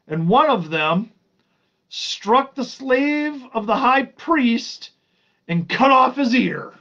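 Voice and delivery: emphatic, drawn-out Bible reading; scripture reading. Acted. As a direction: read it out high and strong, stretching key words. Reads scripture aloud to listeners.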